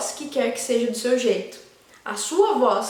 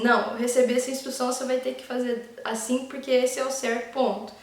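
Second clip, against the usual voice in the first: pushy insistence; faster than usual. Retold or imitated. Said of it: "tem casos que é assim".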